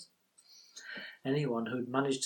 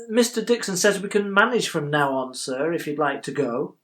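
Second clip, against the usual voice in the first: raised, slightly louder call to the boss; clerk addressing his employer; 5 dB louder than usual. Acted. Clerk fetching old Mister Dixon, raised respectful address. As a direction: address an employer, pitched up at first.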